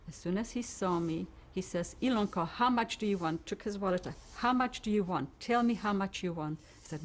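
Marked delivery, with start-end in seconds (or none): 2.0-6.6 frantic pleading. Retold or imitated. Neighbor caught with the furniture, pleading with her frantically. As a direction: beg her to name a price, fast.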